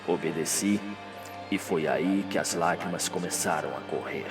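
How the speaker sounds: low, hushed, slow deathbed voice; dying Radamés. Acted. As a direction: speak softly and deep, as from a deathbed.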